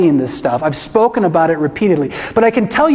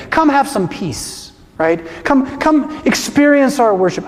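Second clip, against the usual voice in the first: higher, sing-song salesy invite; mock cheerful pitch like selling toasters; mocking sales pitch; 4 semitones higher than usual. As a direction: parody a church selling itself. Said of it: "the current mission of".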